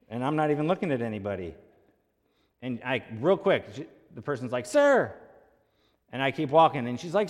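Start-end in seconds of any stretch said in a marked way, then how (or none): 4.7-5.1 much higher, louder mock holler; high-pitched shouted summons, retold; imitated yell. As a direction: imitate an insistent shopper shouting after someone. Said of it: "someone yells".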